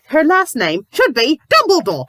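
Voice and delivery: "should" and "Dumbledore" yelled high and loud; exasperated yell. Real, not acted. Reviewer losing it over the surname, exasperated yell. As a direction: shout "her last name should be Dumbledore" in disbelief. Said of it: "okay, I need to breathe".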